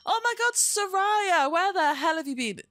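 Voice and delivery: high, loud squeal of delighted recognition; excited greeting. Real, not acted. Streamer greeting Soraya after an absence, excited squeal. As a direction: cry out the name, loud and very high.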